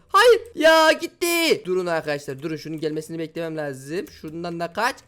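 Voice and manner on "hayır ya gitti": sharp high yell of dismay, then a slow drawn-out groan; loud dismayed cry. Real, not acted. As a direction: cry out as the run is lost. Falls in game, cries out. (yüksek sesle hayal kırıklığı çığlığı)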